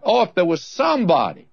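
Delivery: a touch of Job's heartfelt cry. Retold or imitated. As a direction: voice Job's longing plea to God. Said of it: "Job was crying out".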